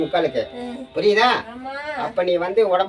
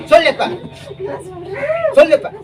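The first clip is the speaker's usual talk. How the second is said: higher, louder order to speak; stern command; 12 semitones higher, 4 dB louder, faster than usual. Real, not acted. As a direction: demand it hard. Exorcist demands the oath. (கடுமையான கட்டளை)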